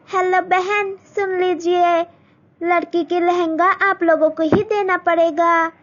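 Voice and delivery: high, demanding in-law voice; groom's mother testing Malti's cooking; haughty groom's mother. Acted. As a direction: quiz the bride condescendingly.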